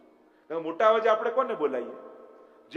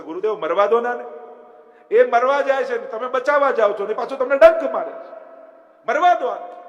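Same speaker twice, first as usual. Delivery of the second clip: loud, higher pleading shout; disciples' plea; 7 semitones higher, 10 dB louder than usual. Retold or imitated. Disciples shouting at the guru to let the scorpion die, loud plea. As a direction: urge the guru loudly to let it go. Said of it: "કહ્યું કે".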